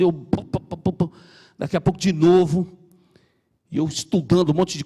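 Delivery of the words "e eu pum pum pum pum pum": light hiccup sounds, pum pum; imitated hiccups. Man retelling three days of hiccups, mock hiccuping. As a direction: mimic hiccuping in rhythm. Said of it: "você tá soluçando".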